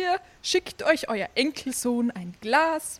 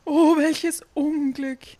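mild wailing lament, a bit higher; 4 semitones higher, 3 dB louder than usual. Acted. Innkeeper lamenting the dead grandmother, mild wail. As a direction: groan it out in dismay. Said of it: "jammerte der Wirt".

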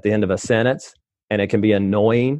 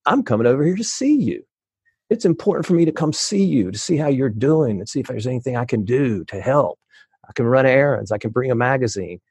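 sincere earnest visitor. Retold or imitated. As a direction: say it like you mean it. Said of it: "the power of".

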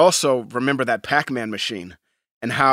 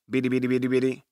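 lightly voiced robot chirp; a hint of the Buck Rogers robot; 5 dB quieter, faster than usual. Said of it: "That's Buck Rogers".

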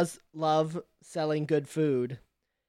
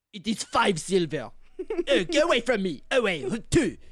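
irritated French cheese seller; dismissive, in a light French accent; 4 semitones higher than usual. Acted. Cheese seller shooing a customer away, French accent. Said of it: "French accent and all".

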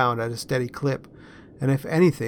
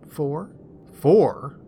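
a louder, spluttering echo; sputtered; 2 semitones higher, 5 dB louder than usual. Acted. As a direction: splutter it back in disbelief. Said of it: "Noah sputtered".

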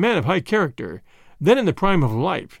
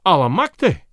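exclaimed; 5 dB louder than usual. Acted. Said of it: "he exclaimed".

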